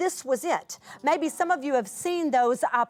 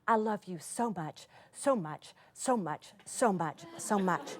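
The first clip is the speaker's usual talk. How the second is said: tender letter reading; 5 semitones lower, 7 dB quieter than usual. Retold or imitated. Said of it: "half of the page from that point on goes".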